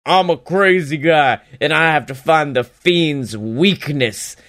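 lightly mocked crazy-guy promo voice; half-hearted imitation of a self-declared madman; the speaker playing crazy. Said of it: "Randy's trying to be like".

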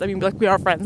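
we are friends with we stressed loudly. Shown as a demonstration. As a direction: lean on the word we. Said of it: "Not we're just friends".

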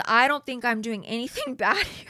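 laughing through the quote; breaking into laughter. Retold or imitated. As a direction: quote cracking up midway. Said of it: "I can't even say this with a straight face".

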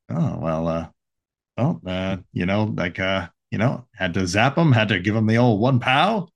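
halting, filler-laden impression; Jeff Goldblum. Radioing a teammate to check in, as a hesitant Jeff Goldblum. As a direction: stammer loosely through it, drawing out the odd word. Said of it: "he's, uh, Jeff Goldblum".

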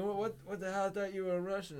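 high, baffled protest; imitating a totally lost gamer; confused. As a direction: stammer in mock bewilderment. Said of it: "he got so confused".

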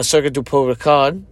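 Circuit du Pau Ricard in a self-admitted clumsy French accent. Shown as a demonstration. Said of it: "my French accent is terrible".

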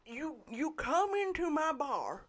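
put-on gruff toothless old man; gummed grumbling old barkeep. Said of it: "It's my old man voice".

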